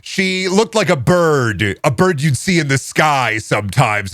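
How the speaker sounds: slow dreamy read; mock author reading. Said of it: "Grady Hendrix describes things with".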